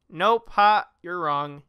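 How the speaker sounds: gloating "nope, ha" with a jump up; playful mock taunt. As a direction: tease the audience like the movie does. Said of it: "And then".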